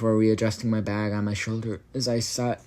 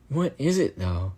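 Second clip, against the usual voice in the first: curious; 4 semitones higher, 3 dB louder than usual. A narrator's reading. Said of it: "I said curiously".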